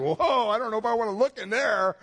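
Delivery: mock startled. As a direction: recoil from your own reflection. Lady recoils at magnifying mirror.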